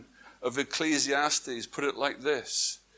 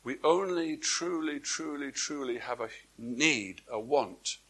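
softer and softer on each truly; solemn hush; 5 dB quieter than usual. Acted. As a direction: let each truly sink quieter. Solemn repeated emphasis.

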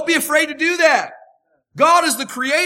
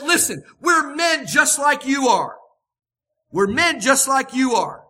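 urgent protest; 4 dB louder than usual. Retold or imitated. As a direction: stop the crowd, insist you're human. Paul protests the worship.

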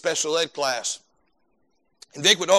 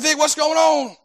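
much higher, louder hello; retold cheery greeting; 11 semitones higher, 6 dB louder, slower than usual. Preacher greeting Vic at school, much higher and louder. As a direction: call out warmly to Vic.

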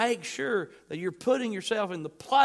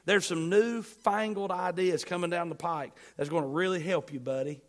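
mock trendy advice. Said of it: "Paul doesn't say".

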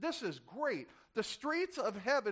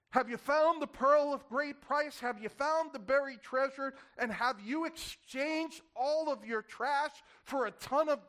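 rising appeal; 4 semitones higher, 3 dB louder than usual. Real, not acted. Preacher calling out rhetorical questions.

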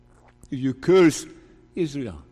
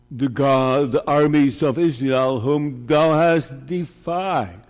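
mock biblical prophet; 3 dB louder than usual. Preacher voicing David's defiant challenge.

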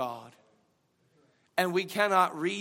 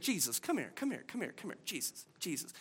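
dropping to a near whisper; Peter's secret plea to Jesus; hushed aside; 9 dB quieter, faster than usual. Acted. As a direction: pull him close and whisper urgently.

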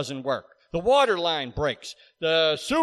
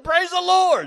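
high, louder praise shout; retold joyful cry; 13 semitones higher, 8 dB louder than usual. The professor praising the Lord once more, loudly. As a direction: call it out higher with joy. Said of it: "He said".

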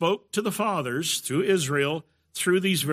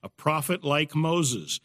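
"A prophet like Moses" said slowly, each word weighed; slow emphasis; slower than usual. Shown as a demonstration. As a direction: spell out the phrase slowly for emphasis. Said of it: "That's emphasized twice".

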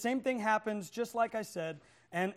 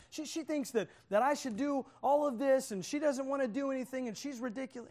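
higher-pitched griping, lightly acted; bitter complaining; 4 semitones higher than usual. Husband fumes about his wife in the car, bitter complaining. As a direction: grumble indignantly to yourself. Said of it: "the whole time he gets bitter".

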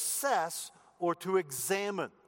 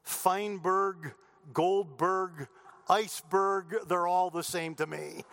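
smug retort. Acted.

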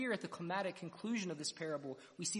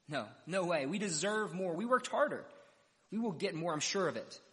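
indignant protest; 2 semitones higher, 5 dB louder than usual. Acted. Workers complaining about equal pay.

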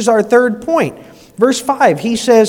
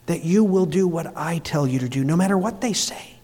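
gentle voice of God; 3 semitones lower, 3 dB quieter than usual. Acted. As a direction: speak it like a father calming a child. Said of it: "But God says".

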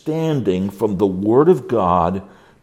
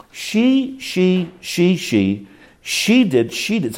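higher, quick finger-pointing whine; blaming voice; 7 semitones higher, slower than usual. Retold or imitated. Counselee whining that she did it, mock blame. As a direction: jab the blame at her, high and petulant. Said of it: "or it'll be this".

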